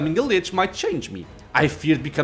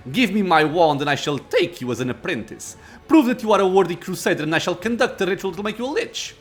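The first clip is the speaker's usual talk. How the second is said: irritated lich; 2 semitones higher than usual. Acted. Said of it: "the Lich exclaims in irritation".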